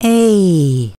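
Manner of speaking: falling tone A. Shown as a demonstration. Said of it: "The tone goes down".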